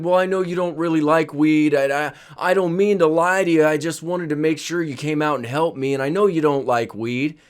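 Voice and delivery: put-on pleading drunk dad. Drunk dad making excuses.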